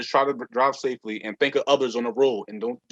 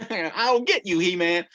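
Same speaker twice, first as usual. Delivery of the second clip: Skeletor; 5 semitones higher than usual. Retold or imitated. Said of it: "it sound like Skeletor".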